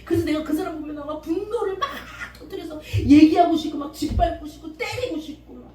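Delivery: a believer pouring out resentment to God; acted prayer. Believer praying about her mother, pleading then fuming. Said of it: "기도를 통해서 용서를 해봐요".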